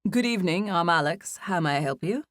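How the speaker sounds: put-on light British accent, polite and proper; a hint of a courteous British clerk. Hotel clerk greets a guest at the desk, in a light British accent. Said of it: "he said in a British accent".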